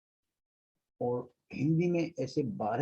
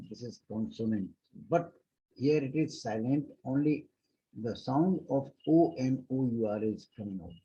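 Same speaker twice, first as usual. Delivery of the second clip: slow dictation; much slower than usual. Shown as a demonstration. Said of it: "slow teaching dictation".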